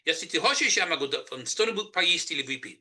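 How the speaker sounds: Russian spoken with a thick Southern redneck accent. Shown as a demonstration. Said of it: "That's Russian in a redneck accent".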